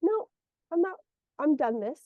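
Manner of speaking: acted-out firm no; firm refusal. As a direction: put your foot down, mildly. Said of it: "You need to be firm".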